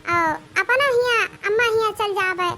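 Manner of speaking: put-on butter up the old woman with an invitation; sweet-talking bride. Bride invites mother-in-law.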